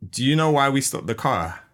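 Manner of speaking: nicest tone. Retold or imitated. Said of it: "she comes with the really nicest tone".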